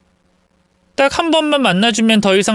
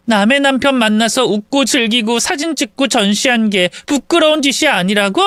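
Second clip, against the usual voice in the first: higher, indignant retort; outraged disbelief; 6 semitones higher than usual. Acted. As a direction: spit it back in disbelief. Rival outraged at the reply.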